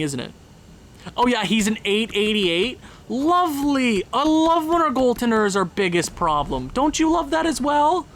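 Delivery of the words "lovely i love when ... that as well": sarcastic praise. Real, not acted. Mocking his bad goaltender.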